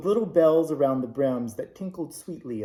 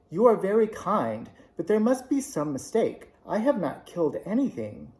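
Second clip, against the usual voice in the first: put-on higher, careful little girl; unsure little girl, feeling her way; with hesitation; 5 semitones higher than usual. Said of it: "so Dorothy said with hesitation".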